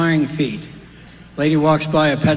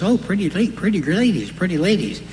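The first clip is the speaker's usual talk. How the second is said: higher parrot squawk, stumbling over the words; 4 semitones higher than usual. Retold or imitated. Parrot spots the daughter and stumbles, high squawky voice. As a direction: parrot corrects itself mid-greeting. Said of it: "sees her daughter and says".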